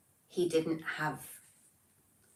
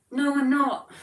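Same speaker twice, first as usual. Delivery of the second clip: laughing protest; 10 semitones higher, 9 dB louder than usual. Real, not acted. Joking denial about her age.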